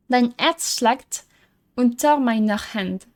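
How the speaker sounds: slow, careful reading of foreign words; deliberate learner's German; reading German aloud. Real, not acted. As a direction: read the lullaby slowly, word by word. Reads a German note aloud.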